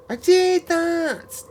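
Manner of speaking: high and slow, hammed up; high drawn-out mock voice. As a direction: stretch it out in a high squeal. Final exaggerated take.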